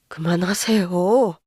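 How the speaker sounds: slow, low and final, words clipped off; firm cut-off. A narrator's reading. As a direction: shut her down with one firm line. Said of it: "딱 잘라 단호하게 말하자".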